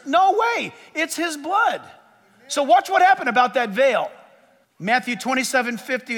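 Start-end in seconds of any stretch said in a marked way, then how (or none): 0.1-1.8 high, insistent preacher's voice; full-force pulpit plea; impassioned preaching. Real, not acted. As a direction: drive it home to the congregation, high and forceful.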